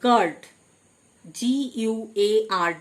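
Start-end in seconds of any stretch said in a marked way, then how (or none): 0.0-0.4 "গার্ড" with no U after the G; silent U. Shown as a demonstration. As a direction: say "গার্ড", hard G straight into "আ". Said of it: "ইউ silent". ("গার্ড", ইউ উচ্চারণ না করে)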